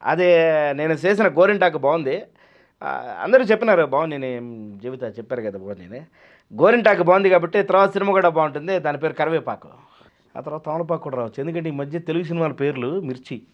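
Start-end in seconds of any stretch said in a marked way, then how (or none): 0.0-11.4 Rajasekhar impression. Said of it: "నేను create చేశాను".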